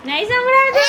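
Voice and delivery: put-on playfully loud, urging the child to shout back; teasing loud call. Shown as a demonstration. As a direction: call it out so he hears. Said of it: "જોરથી બોલ તો સંભળાય".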